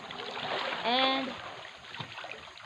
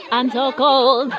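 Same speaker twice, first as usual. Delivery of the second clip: laughing, shivering cold; 3 semitones higher, slower than usual. Real, not acted.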